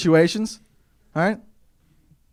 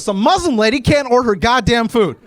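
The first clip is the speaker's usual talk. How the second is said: higher-pitched, mildly exasperated complaint; mock annoyed customer; 7 semitones higher, 4 dB louder than usual. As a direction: grumble aloud as an imitated fed-up customer. Retells annoyed man in the queue.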